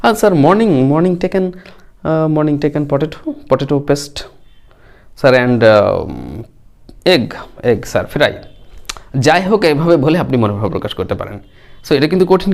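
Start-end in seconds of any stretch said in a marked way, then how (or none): 0.0-8.3 halting broken English. Pretend. Teacher playing a weak student, hesitant broken English. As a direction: stumble like a weak student saying any English word he knows. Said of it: "তাহলে আপনি বললেন যে".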